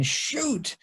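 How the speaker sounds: high, soft annoyed mutter; a touch of hushed frustration; a hint of a muttered Ned curse; quiet high curse.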